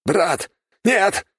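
a soldier screams as his brother falls; anguished cry. A narrator's reading. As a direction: cry out over a dying brother. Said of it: "выкрикнул".

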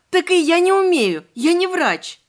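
high, loud panicked cry; panicked shout. A narrator's reading. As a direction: yell it in helpless panic. Heroine panics, cannot treat.

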